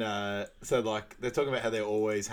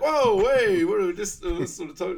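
high, loud protest; mock outraged shout; 10 semitones higher, 9 dB louder than usual. Man at a double date protesting, loud. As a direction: throw up a startled shout.

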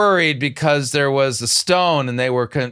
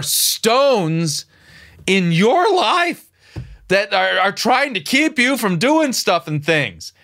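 mock preacher voice; 5 semitones higher, slower than usual. Mocking her sermon.

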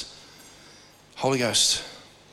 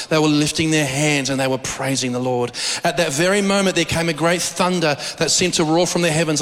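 visionary sermon telling; 2 semitones lower than usual. Acted. Preacher recounting a vision.

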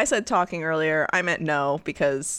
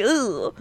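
"ugh" of squirming revulsion; grossed-out groan; shudder of discomfort; 4 semitones higher than usual. Acted. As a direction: shake off a creepy feeling with an ugh. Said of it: "because it's just like".

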